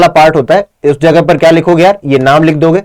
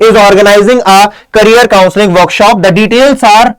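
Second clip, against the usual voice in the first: slow dictation; much slower than usual. Shown as a demonstration. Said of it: "career counselling workshop open कर रहा है".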